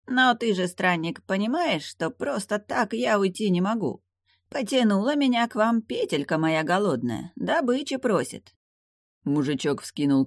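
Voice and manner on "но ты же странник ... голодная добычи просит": demon voice. A narrator's reading. Demon voice held high.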